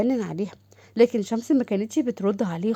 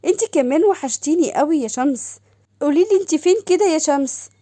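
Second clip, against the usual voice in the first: higher, eager sister calling; sister's voice; 5 semitones higher, 4 dB louder than usual. Acted. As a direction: gush over her sister on the phone. The speaker voiced. (صوت أخت متلهفة أعلى)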